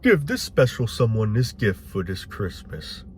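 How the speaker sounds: slow, smooth mock commercial read. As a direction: parody a Christmas TV ad, unhurried. Mocking a holiday commercial.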